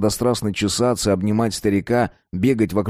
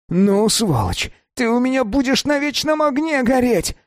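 much higher, furious cursing; angry yell. A narrator's reading. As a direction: shout the curse at the thief. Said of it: "закричал Васятка".

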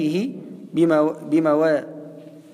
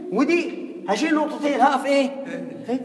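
mock naive student; 5 semitones higher than usual. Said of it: "هتقول لي إيه".

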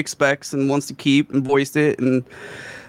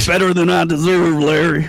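Ziggy; 2 semitones higher, 3 dB louder than usual. Acted. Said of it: "can't even do a fucking Ziggy impression".

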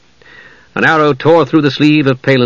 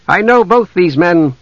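lightly raised, firm voice; authoritative half-elf; 5 semitones higher than usual. Acted. Envoy shields two men from elves, firm. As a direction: vouch for them firmly.

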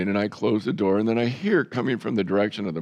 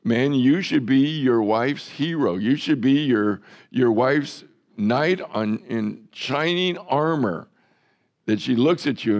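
raised preaching voice, slow on the end; rally the men to be heroes; urging; 4 semitones higher, 3 dB louder than usual. Real, not acted. Preacher exhorting husbands, raised and insistent.

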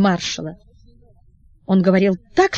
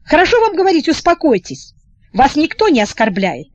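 irritated mockery; 6 semitones higher than usual. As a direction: throw the word back sharply. Prince mocks the comforting word.

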